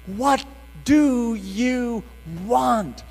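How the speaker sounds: slow, drawn-out servant's offer; humble servant. Retold or imitated. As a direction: speak as a bowing servant, slowly. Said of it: "like a servant, saying".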